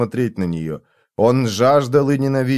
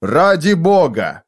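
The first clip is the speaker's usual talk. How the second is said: outburst; 4 semitones higher, 3 dB louder than usual. Acted. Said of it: "взорвался он".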